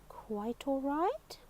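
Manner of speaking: soft, slow puzzled murmur to himself; quietly turning the words over in disbelief. Acted. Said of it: "repeated Mister Good to himself".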